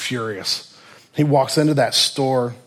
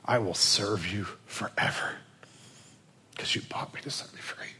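weeping whisper; 3 semitones lower, 11 dB quieter than usual. Retold or imitated. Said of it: "And weeping".

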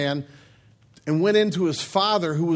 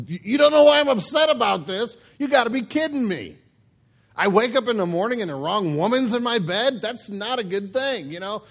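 indignant protest; 4 semitones higher than usual. Retold or imitated. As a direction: play the cheated groom, hammed-up outrage. Jacob protests to Laban.

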